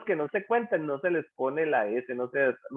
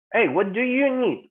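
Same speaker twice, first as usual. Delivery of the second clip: slower, higher-pitched example question; acted question; 8 semitones higher, 3 dB louder than usual. Teacher demonstrates asking another person, lightly acted question. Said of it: "la otra persona me responde".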